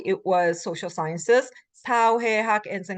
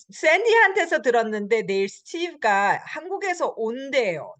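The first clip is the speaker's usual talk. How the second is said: quick, clipped report; 5 semitones higher, much faster than usual. Shown as a demonstration. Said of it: "then it's shorter, right?".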